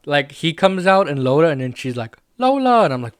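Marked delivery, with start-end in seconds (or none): 2.4-2.8 high, loud delighted squeal of a name; excited Leia. Retold or imitated. Leia spotting her droid, high excited cry. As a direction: call the droid's name, thrilled, much higher and louder.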